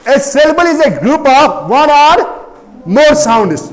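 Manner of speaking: slow, measured dictation in chunks. Real, not acted. Teacher giving students a syllable definition, slow dictation. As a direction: dictate slowly, pausing for students to write.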